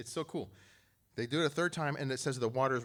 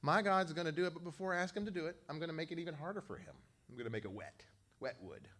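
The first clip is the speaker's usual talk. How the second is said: taunting; 4 semitones higher than usual. Retold or imitated. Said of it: "He's taunting them even more".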